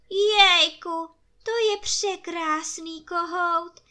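high, loud delighted empress voice; excited blurt. A narrator's reading. Empress at the window blurts out her delight over the rooster, high and excited. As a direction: gush over the beautiful rooster. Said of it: "vyhrkla císařovna".

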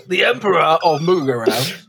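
lightly voiced imperial introduction; a touch of mock grandeur; royal herald. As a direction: announce a title as if at court. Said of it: "old royal intros where you just".

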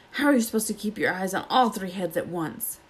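a hint of a grumbling Snape; irritated Snape. Snape grumbles to Filch over his mangled leg, irritated. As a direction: mutter it like a sore man cursing his wound.

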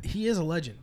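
IS lifted high in "He is a legend"; stress on IS. Real, not acted. Concedes the other's point, with contrast.

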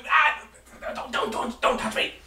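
high panicky squeak, half whispered; frightened gnome. Acted. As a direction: shrink away in terror. Panicked gnome recoils from rescuers.

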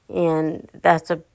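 words slurring, slow and lagging; tongue tripping over the words; slurred speech. Real, not acted. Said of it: "I just slurred my speech".

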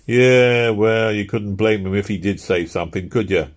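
a touch of sneering in Slime's voice; a curt, mildly offensive jab. Acted. Slime jabbing at Philpot, mildly offensive tone. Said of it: "said Slime offensively".

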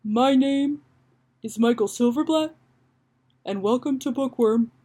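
halting radio host, phrases set apart; tentative host intro with long pauses; Michael Silverblatt. Acted. Host welcomes listeners to a book show, tentative careful impression. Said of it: "let me try to hone Michael Silverblatt".

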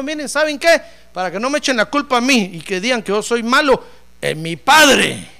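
loud preached quote; preaching loud. Acted. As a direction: call out to the crowd. Jesus voiced by preacher.

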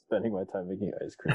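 embarrassed high little laugh; sheepish, giggling at yourself; laughing off embarrassment. Real, not acted. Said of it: "But you sound so embarrassed".

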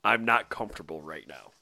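softly mimicking, low and quiet; mock quiet quote. Quoting Peter to cohost, softly. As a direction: mumble it like a sheepish guy. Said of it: "Peter just saying".

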